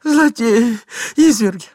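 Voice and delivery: высокий громкий крик дамы; выкрикни высоко и с надрывом. A narrator's reading. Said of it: "кричала дама". (истеричный женский крик)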